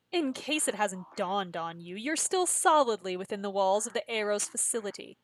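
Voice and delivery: measured villain, slowing at the end; a hint of composed menace; lightly voiced captor Chloe.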